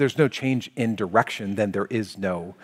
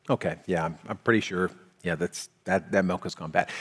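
grudging admission; 5 semitones lower, 7 dB quieter than usual. Retold or imitated. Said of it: "simply acknowledging that the milk is spoiled".

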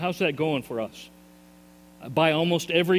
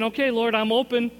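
pleading surrender prayer; 5 semitones higher than usual. Pretend. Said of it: "you're saying".

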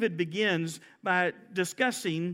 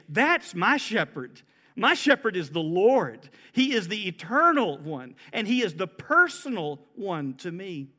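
louder, firm proclamation; emphatic declaration; 4 dB louder than usual. Retold or imitated. David declaring to all, firm and loud.

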